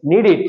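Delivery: নিড ইট with a short i in the last syllable; corrected pronunciation. Shown as a demonstration. Teacher corrects the class's past tense of need, corrected pronunciation. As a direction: end নিড ইট in -it, not -ed. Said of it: "নিডেড বলবো না নিড ইট".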